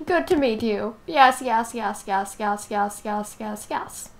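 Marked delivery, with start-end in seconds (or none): 1.1-4.1 trailing off from plain to much softer; fading yeses. Pretend. Finally shaking hands, yeses fading softer. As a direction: let the yeses melt away.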